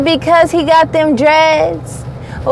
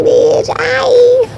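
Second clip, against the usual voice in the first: sassy greeting; 11 semitones higher than usual. Acted.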